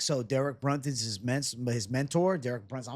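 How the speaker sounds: slightly slurred, tripping over words; slurring words. Real, not acted. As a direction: stumble through the words. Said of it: "I'm slurring words over here".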